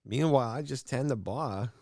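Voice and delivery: lightly put-on Brooklyn accent. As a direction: toss it off like a Brooklyn bartender. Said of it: "that's a good accent".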